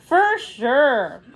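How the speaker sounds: quick, bright eager yip; a little excited yip; yipped. A narrator's reading. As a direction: snap it out keen to go. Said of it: "Flash yipped".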